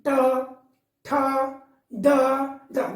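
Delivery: each letter said alone with a pause; ट ठ ड ढ, each on its own, tongue curled; slow syllable drill. Shown as a demonstration. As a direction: spell out the ट row one by one for class. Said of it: "देखिए जीभ मुड़ रही है".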